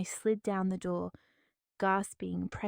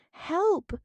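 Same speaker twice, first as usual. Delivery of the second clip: much higher, loud shriek; 10 semitones higher, 6 dB louder than usual. Acted. Trapped woman shrieks for help, shrieking. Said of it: "I shrieked again".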